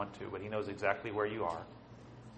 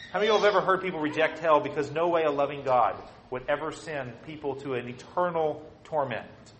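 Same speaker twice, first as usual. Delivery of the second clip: fast, louder rising appeal; building preaching; 4 semitones higher, 4 dB louder than usual. Real, not acted. Preacher challenging the crowd, rising to a loud plea.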